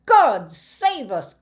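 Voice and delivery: slow, loud horrified cry; a loud, drawn-out cry of horror; cried. Acted. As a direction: gasp it out, appalled. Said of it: "cried the apothecary".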